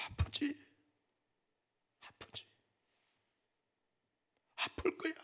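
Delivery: barely voiced, tender whisper; whispered sympathy. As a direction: whisper the pain back to him. God whispers to suffering Job. (아픔을 알아주는 속삭임)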